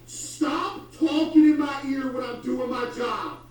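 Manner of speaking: slow, loud, high shout; annoyed shout. Real, not acted. Streamer shouts at chat to stop talking, slow. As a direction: bark it out to shut them up.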